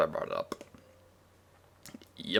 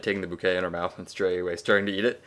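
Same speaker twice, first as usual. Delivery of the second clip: ordinary delivery, nothing marked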